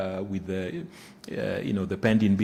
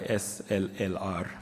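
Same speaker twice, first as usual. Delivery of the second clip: letters spaced out one by one; careful, slow spelling-out; 4 dB quieter than usual. Real, not acted. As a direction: spell the initials slowly and deliberately. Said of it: "say that a bit slowly".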